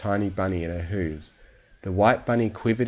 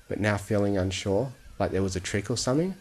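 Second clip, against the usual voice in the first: usual speaking voice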